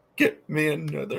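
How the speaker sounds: slow, weak, laboured, halting speech, soft. Retelling what the bedridden father asked about the nurse, imitating Dad's slow speech. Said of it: "He's saying this slowly".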